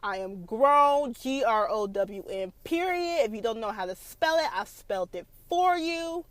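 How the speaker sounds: high, mock-defiant, letter by letter; lightly hammed sassy comeback; a hint of a defiant young wife; sassy attitude. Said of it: "That was me".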